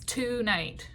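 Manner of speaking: "Tonight" with a drawn-out TOO first syllable; wrong stress TO-night. Shown as a demonstration. Teacher shows why it doesn't fit, TOO-night stressed up front. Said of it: "doesn't sound right".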